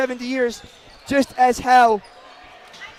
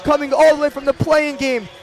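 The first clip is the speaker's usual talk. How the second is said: excited play-by-play; 4 dB louder than usual. Real, not acted. Final buzzer, champions announced.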